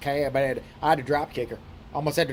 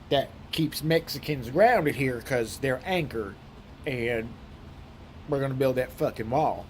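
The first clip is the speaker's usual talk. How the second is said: Southern hick impression. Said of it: "So talks like this".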